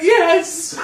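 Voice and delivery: high, loud, drawn-out exclamation with laughter; mock triumphant cheer. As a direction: shout it out in exaggerated, laughing triumph. Re-enacts delight at the movie turning great.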